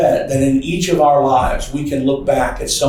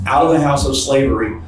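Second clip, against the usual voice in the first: scripture reading. Acted. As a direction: read the verses with weight. Reads scripture aloud in sermon.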